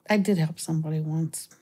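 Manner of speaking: breathy whispered repeat of the line. Shown as a demonstration. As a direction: drop to a secret whisper. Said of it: "repeats the line whispered".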